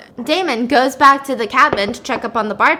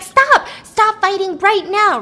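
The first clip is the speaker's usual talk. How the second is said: high, loud order to stop, then slower; commanding shout; 9 semitones higher, 4 dB louder, slower than usual. Retold or imitated. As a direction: yell to freeze the brawlers. Valerie draws gun, stops fight.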